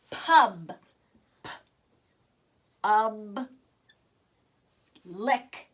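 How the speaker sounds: "Pub" slowly, then "P-ub" split into sounds, then "Lick"; teacher sounding out "Pub", "P-ub", "Lick" with long gaps. Shown as a demonstration. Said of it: "I'm going to sound it out".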